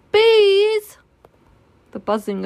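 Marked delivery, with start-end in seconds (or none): 0.1-1.0 long, very high, loud holler; loud call. Acted. Pooh trying to call the bees home, hollering. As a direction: stretch the word into a high sustained call.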